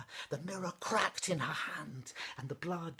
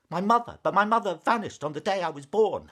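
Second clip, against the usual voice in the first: loud, fast, shocked disbelief; 5 semitones higher, 15 dB louder, faster than usual. A narrator's reading. Princess stunned by news of her mother, loud disbelief. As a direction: blurt it out in shock. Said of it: "the princess was shocked".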